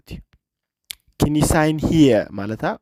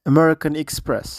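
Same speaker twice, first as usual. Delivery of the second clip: slow repeat for learners; 5 semitones higher, much slower than usual. Shown as a demonstration. Teacher repeats clip slowly for class.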